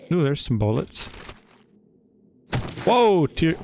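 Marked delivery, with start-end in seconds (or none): 2.8-3.6 surprised whoa. Real, not acted. Surprised at loot.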